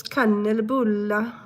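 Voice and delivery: slow, stretched Swedish kanelbulla; emphatic, lengthened Swedish word; long Swedish vowels. Shown as a demonstration. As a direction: draw out kanelbulla like a Swede. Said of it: "it's just, like, very, like, long".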